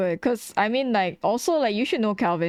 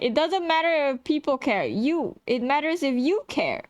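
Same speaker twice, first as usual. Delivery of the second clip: imitating Anansi; 4 semitones higher than usual. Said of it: "Anansi is gonna come in and be like".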